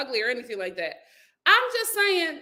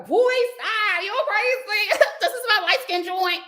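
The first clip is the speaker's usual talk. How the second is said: laughing, higher-pitched mock Philly accent; 8 semitones higher than usual. Joking about dating a Philly man, deep Philly accent. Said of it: "the accent is gonna be deep".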